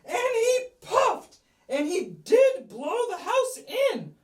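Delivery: lightly acted wolf blowing; hammed-up huffing. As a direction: puff it out like the wolf. Narrator acts wolf huffing.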